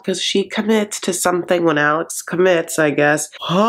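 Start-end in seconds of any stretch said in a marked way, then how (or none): 3.4-3.6 extremely drawn-out sloth greeting. Retold or imitated. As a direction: stretch the word out endlessly like a sloth. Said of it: "pretending to be a sloth".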